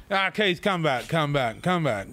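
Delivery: drawn-out retold call; calling back. Tomo calls Keith back across the yard, calling out. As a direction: summon someone who is running off.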